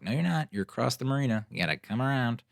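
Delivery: high, impatient correction; exasperated retort. Retold or imitated. To the late Uber driver, high exasperated retort. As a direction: set her straight, exasperated.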